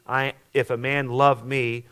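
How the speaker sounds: slow read with "love" leaned on; stress on love. Shown as a demonstration. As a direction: hit the word "love" in "if a man love me". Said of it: "the emphasis is on love".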